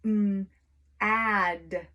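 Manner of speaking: mm, then add stretched; sounding out mad. Shown as a demonstration. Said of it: "spell the word mad".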